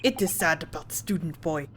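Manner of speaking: a touch of mock sadness, Russian sailor; mildly mournful in a put-on Russian accent; bad Russian accent. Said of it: "my very bad Russian attempt".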